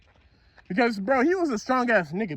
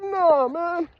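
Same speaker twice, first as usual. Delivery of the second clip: squeaky shock; 8 semitones higher than usual. Retold or imitated. Retells being slammed into wall.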